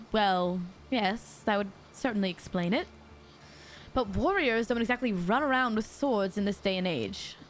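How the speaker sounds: lightly put-on British character voice; a hint of a vague British accent; accidental British accent. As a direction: read it as a mildly British skeptic. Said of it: "Why am I British?".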